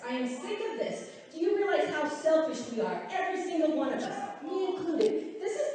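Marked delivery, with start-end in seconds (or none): 0.1-1.1 firmer repeat, voice back up to normal height; open frustration. Real, not acted. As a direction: let the frustration out. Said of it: "I'm getting mad".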